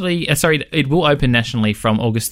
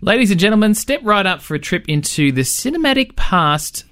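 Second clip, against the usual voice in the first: ringmaster; 5 semitones higher than usual. Pretend. Radio host barker intro.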